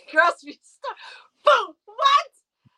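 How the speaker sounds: shrill disbelieving cry at the price; half-laughing indignant squeal; mock outrage. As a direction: act floored by a five dollar avocado. Avocado price outrage rant.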